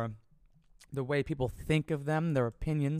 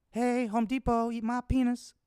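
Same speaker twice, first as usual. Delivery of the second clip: higher, sing-song mock taunt; 8 semitones higher than usual. Taunting Home Depot, higher sing-song mockery. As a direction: tease the company playfully.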